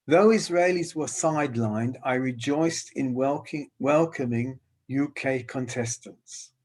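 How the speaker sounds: measured reading of written verse; slow reading aloud. Real, not acted. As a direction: read it out unhurriedly, line by line. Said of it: "I'll read slowly".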